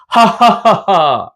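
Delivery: slow mock genie laugh; cartoon brute laugh. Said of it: "ওই আলাদিনের দৈত্যের মতো".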